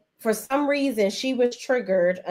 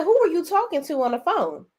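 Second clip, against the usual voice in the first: higher voice imitating Myron; Myron quoting; 9 semitones higher, faster than usual. Retelling Myron's jealous question to the pastor, higher mock voice. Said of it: "he was like".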